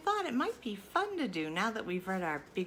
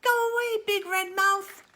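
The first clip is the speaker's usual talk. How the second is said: loud, higher shout of go away; loud command; 11 semitones higher, 11 dB louder than usual. Acted. Reader shouting at the monster to go away. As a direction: order it off the page, big.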